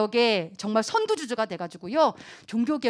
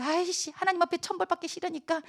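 higher, much softer grumble; cowed reluctance; 5 semitones higher, 7 dB quieter than usual. Acted. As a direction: give in timidly under a threat. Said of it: "무서워가지고 어땠다는 거예요".

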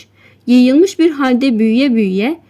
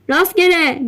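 higher call across the fog; 5 semitones higher than usual. Acted. Someone in the fog greets the fishermen, calling out. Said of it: "diye bağırdı sisin içinden biri".

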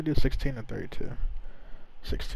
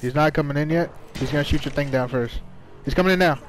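raised urgent callouts; loud warning; 4 semitones higher, 5 dB louder than usual. Real, not acted. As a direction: shout the warning. Warning teammates in fight.

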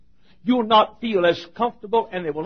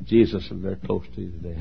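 sincere wish; 9 semitones lower, 4 dB quieter than usual. Shown as a demonstration. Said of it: "Why don't you say".

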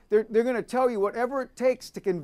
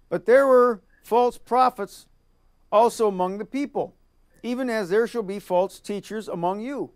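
preaching at full force. Acted. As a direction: proclaim the verses like a preacher. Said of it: "preaching scripture reading".

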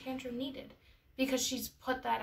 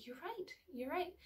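soft, higher, whispery concession; hushed agreement; 6 semitones higher, 8 dB quieter than usual. Retold or imitated. Sad mother agreeing with her comforting daughter, hushed. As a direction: gently give in to being comforted.

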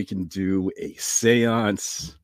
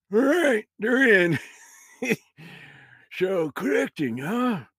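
put-on old grandpa voice; 9 semitones higher than usual. Grandpa ghost voice.

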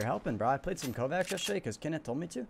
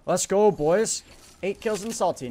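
celebrating; 6 semitones higher, 7 dB louder, slower than usual. Real, not acted. Celebrating kills.

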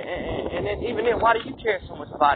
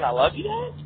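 higher, sing-song fake innocence; mock innocent; 9 semitones higher than usual. Needling his dad after the threat, mock innocent question. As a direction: play dumb, all mock sweetness. Mocking dad's reaction.

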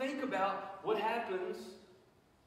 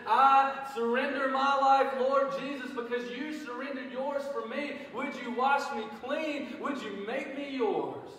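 higher, louder, slow pleading prayer; fervent surrender prayer; 6 semitones higher, 7 dB louder, slower than usual. Retold or imitated. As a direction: cry it out to the Lord, slow and earnest. Voicing a sinner's prayer.

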